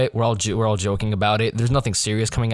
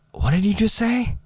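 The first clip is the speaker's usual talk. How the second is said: higher-pitched puzzled question; imitated adult disbelief, pitched up; incredulous adult; 10 semitones higher than usual. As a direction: mimic a baffled grown-up asking. Quoting a puzzled adult's reaction.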